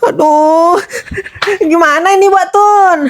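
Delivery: mild panic, helpless plea; panicking father. Acted. Father begs the neighbour for help over his missing child, panicky. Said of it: "Pak Heri jangan panik dulu".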